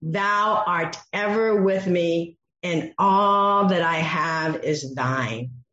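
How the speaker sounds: slow, gentle reassurance; slow warm fatherly reading; tender father. Acted. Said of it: "shows the endearment".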